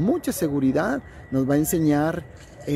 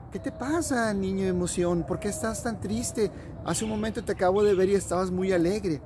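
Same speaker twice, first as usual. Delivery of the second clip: higher, soft caring voice for the Sun; kindly Sun friend; 4 semitones higher, 4 dB quieter than usual. Acted. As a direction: gently ask a sad child what's wrong. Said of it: "vino y le dijo". (voz amable y aguda del Sol)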